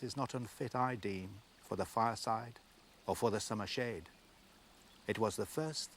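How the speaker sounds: measured, unhurried reading of verse; poem recital. Acted. Presenter reading Michael to the viewers, measured poem recital. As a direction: let each line of the poem breathe.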